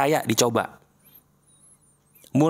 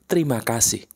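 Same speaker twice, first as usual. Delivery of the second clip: whispered thanks; 7 semitones lower than usual. Shown as a demonstration. Coach ending the affirmation for the viewer in a whisper. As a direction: breathe the last thank you.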